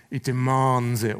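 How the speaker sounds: imitated Scottish accent, slow and drawn out. Preacher quoting a football pundit, slow Scottish accent. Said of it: "in his Scottish accent".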